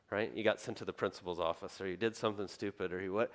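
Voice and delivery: normal talking voice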